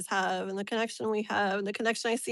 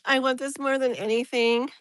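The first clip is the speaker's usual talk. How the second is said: tearful; 2 semitones higher, 3 dB louder than usual. Real, not acted. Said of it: "I'm gonna cry".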